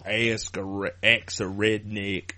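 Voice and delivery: slow, stretched redneck drawl; put-on American redneck twang; redneck accent. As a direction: do a hammed-up redneck, vowels dragged out. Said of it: "Redneck style".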